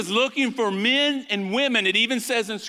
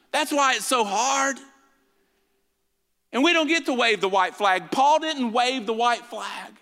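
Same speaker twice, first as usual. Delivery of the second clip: preaching at full force; 3 semitones higher than usual. Acted.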